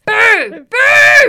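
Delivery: long, high, shouted boos; heckling boo. Pretend. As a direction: boo loudly like an outraged heckler. Heckling a sexist movie line.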